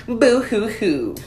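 slow hammed-up boo hoo sob; fake crying. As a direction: whine it out like a mock crybaby. Mocking Trump as a crybaby.

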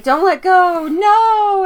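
high pleading shout, rising to a no; desperate tree cry. Retold or imitated. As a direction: beg like a tree torn away.

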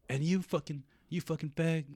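high-pitched imitation of an insulting woman; hammed-up high voice; mock angry neighbour.

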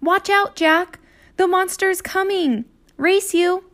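high, teasing little-sister voice; playful excited call. Acted. Annie teases Jack about the monster, high and playful. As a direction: dare him to race.

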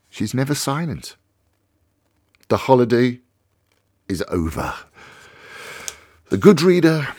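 measured, unhurried reading of a short story; story narration. A narrator's reading. Radio host reading a Calvino story to listeners, measured narration. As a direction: read it like a late-night radio storyteller.

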